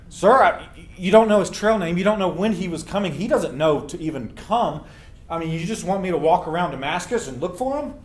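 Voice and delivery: a light Crazy Larry in disbelief; Crazy Larry, incredulous. Retold or imitated. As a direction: scoff at the request. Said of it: "I'm doing my best Crazy Larry voice".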